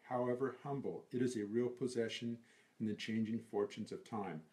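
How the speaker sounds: deliberate, evenly phrased verse reading; poem recitation. Acted. Reciting lines of the Desiderata, deliberate recitation. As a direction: recite each precept with care.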